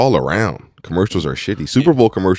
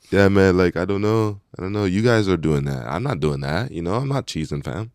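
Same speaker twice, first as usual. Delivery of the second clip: put-on Canadian accent; 4 dB quieter than usual. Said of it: "if he doing a Canadian accent too".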